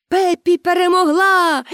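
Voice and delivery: high shout of victory. A narrator's reading. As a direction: audience shouting that Pippi won. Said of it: "закричали глядачі".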